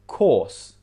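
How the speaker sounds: course with long vowel, no R. Shown as a demonstration. Teacher showing British R rule, course with long vowel. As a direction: stretch the or in course, R silent. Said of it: "that vowel sound is quite long".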